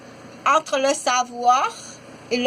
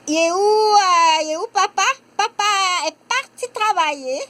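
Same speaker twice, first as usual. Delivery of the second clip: put-on child voice; 6 semitones higher than usual. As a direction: play a small child missing her papa. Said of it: "On dit". (enfant qui demande où est papa, voix aiguë)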